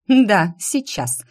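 slow sarcastic snort; scoffing. Acted. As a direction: scoff at the idea. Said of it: "фыркнула она".

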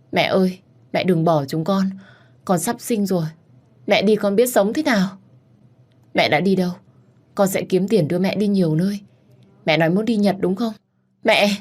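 acted grief, voice lifted; distressed pleading. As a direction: beg a mother not to go. Begging dying mother to stay.

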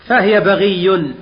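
فهي بغي said very slowly; slow emphasis. Shown as a demonstration. Teacher drilling the word for students, very slow. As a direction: drag out فهي بغي deliberately. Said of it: "هذا اسم الفاعل بغي".

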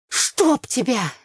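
slow, vexed exclamation; exasperated curse. A narrator's reading. Curses the ice-cream stain on her dress.

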